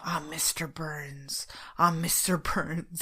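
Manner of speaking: slow whispered chant of a ghost; repeated ghostly whisper. Retold or imitated. Ghost repeating his name over and over, ghostly whisper. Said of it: "he said it over and over again".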